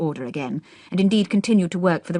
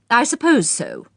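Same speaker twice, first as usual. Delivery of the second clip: duchess bored; 7 semitones higher, 4 dB louder, slower than usual. A narrator's reading.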